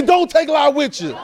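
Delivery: slow, deliberate call line; model line to echo. Shown as a demonstration. Pastor modelling the line slowly for congregation. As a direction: give it slowly for them to echo.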